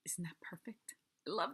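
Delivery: whispered aside. Real, not acted. Delighted aside about name.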